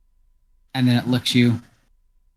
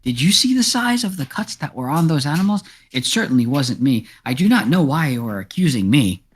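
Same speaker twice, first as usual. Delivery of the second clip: indignant cat; 4 semitones higher than usual. Acted. Cat protests accusation.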